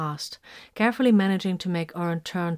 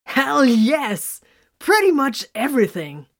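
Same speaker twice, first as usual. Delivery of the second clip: rowdy shout; 8 semitones higher, 8 dB louder, slower than usual. A narrator's reading. Brothers laughing crudely.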